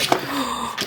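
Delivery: quick high gasp; excited gasp. Real, not acted. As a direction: gasp at the pretty foils. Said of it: "I'm gonna be gasping".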